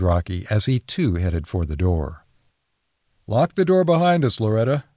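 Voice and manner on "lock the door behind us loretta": firmly voiced order, pitched up. A narrator's reading. Matt orders Loretta to lock the door, firm. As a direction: give a narrated order, raised but not shouted. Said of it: "ordered Matt".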